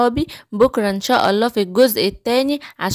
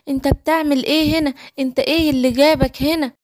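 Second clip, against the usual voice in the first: lightly voiced lion cub; 2 semitones higher than usual. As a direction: play the little lion cub, confused and a bit lost. Little lion Simba voiced. (شبل صغير تايه بصوت أعلى شوية)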